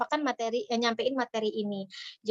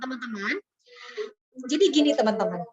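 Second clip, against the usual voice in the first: a firmer, louder opening to the class; loud-voiced speaker; 2 semitones lower, faster than usual. Shown as a demonstration. Loud-voiced speaker warning the audience, firm louder opening. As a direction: open like someone whose voice is naturally loud. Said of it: "suara aku tuh agak tinggi dan keras".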